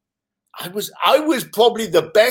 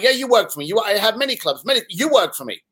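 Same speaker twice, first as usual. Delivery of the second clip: mock Asian accent; 3 semitones higher than usual. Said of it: "I apologize if I'm offending anyone with the accent".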